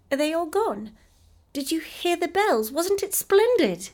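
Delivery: put-on high, eager child's voice, slowing at the end; a delighted child just awake; excited little girl. A narrator's reading. Effie waking and asking Mamma eagerly, high child's voice.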